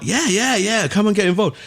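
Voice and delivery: high, badly mimicked German accent. Techno hero welcoming an Australian DJ, high mock German accent. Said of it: "Sorry, my German accent is shithouse".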